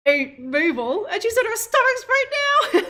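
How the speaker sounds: spring the dark joke with glee; hammed-up ghoulish delight; mock gleeful exclamation. Joke about eating dead Mabel.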